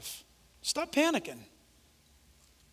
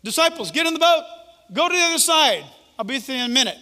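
mild loud command; 6 semitones higher, 7 dB louder, faster than usual. Acted. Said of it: "Jesus said".

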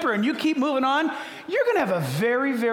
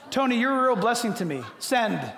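dictating to phone. Shown as a demonstration. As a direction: spell it out to the phone so it understands. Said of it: "verbally, and I sent it".

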